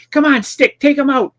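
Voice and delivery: high-pitched mock urging; acted calling out. Movie tough calling on henchman.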